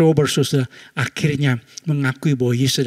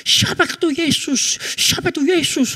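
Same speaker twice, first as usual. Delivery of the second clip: shouting preacher; 13 semitones higher than usual. Retold or imitated. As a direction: hammer the question at the crowd. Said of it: "ulang lagi pertanyaan". (pendeta mengulang dengan berteriak)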